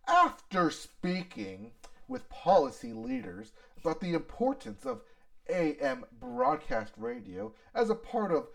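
corporate jargon parody; Ford CEO voice. Retold or imitated. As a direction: read it like a smug CEO statement. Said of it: "Is this your Ford C E O voice?".

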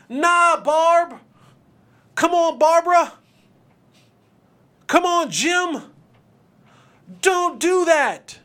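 high, loud whiny coworker voice; mock a meddling coworker talking you out of a raise; nagging coworker. Coworker scolding Barb and Jim for asking for a raise, high and whiny. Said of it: "one of your coworkers was like".

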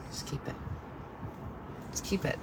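soft, resigned giving up. Retold or imitated. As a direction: let it go with a defeated sigh. Defeated giving up.

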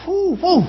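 breathy whoo-whoo of exertion; mock panting whoo. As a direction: puff it out like running hard. Panting on the treadmill.

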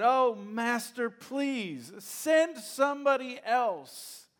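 high, loud, pleading Moses making excuses. Acted. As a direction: beg God like a reluctant man with other plans. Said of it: "He said".

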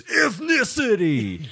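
slow high drawn-out announcer. Retold or imitated. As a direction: drag the word out like a ringside call. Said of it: "And it just goes".

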